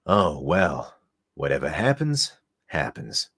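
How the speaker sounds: low throaty rasp from the throat. Acted. Streamer voicing Wise for a donor, throaty rasp. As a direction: talk from the throat like a rough loner. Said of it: "in Wise's voice".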